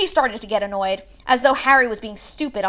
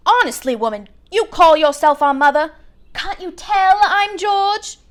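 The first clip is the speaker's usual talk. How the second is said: teasing twin; 6 semitones higher, 6 dB louder than usual. A narrator's reading. Twin teases his mother.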